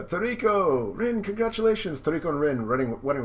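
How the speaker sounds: high, loud congratulatory cheer. Acted. Guests congratulate bride and groom, excited cheer. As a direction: cheer them on at full lift. Crowd cheers the wedding couple.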